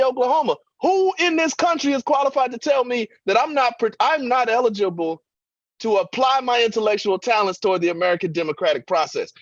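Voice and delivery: a hint of Cornel West from the pulpit. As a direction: still half in the Cornel West voice. Still voicing Cornel West.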